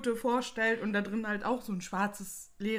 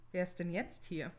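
a lightly voiced ghostly presence, lower; deep slow voice; 3 semitones lower, 7 dB quieter than usual. A narrator's reading. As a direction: drag it out slow, dark and pained. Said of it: "eine tiefe, dunkle Stimme ganz langsam sprechen".

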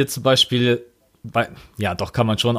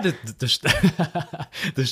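laughing mid-denial; cracking up and breaking off; 3 semitones higher, 4 dB quieter, faster than usual. Real, not acted. Laughs off the joke.

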